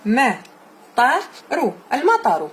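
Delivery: slow model reading. Shown as a demonstration. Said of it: "slow model reading".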